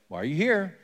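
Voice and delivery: God asking Elijah plainly, a slight lift; asked straight out, with a small rise in pitch; one possible tone. Shown as a demonstration. Preacher tries God's question one way, mildly curious. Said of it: "I don't know if it's a little bit more like".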